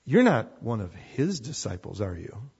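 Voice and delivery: a pointed question that already expects the answer; accusing inflection. Shown as a demonstration. Servant girl challenging Peter, accusing. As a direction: ask it as if you already know he's guilty. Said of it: "I'm gonna apply the inflection that I think probably she had".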